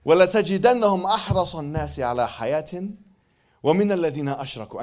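Arabic verse recited; Quran recitation. Acted. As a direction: recite it in tajweed style.

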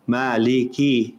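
slow careful recitation. Shown as a demonstration. Teacher reciting the verse slowly. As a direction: draw out Maliki Yawmiddin. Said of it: "recites the verse".

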